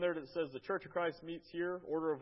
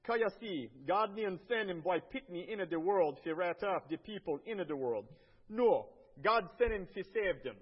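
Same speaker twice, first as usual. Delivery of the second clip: scripture read in a Jamaican patois accent, raised a little in pitch; 4 semitones higher, 4 dB louder than usual. Shown as a demonstration. Missionary reads John 3:17 in Jamaican patois accent. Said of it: "And then in patois".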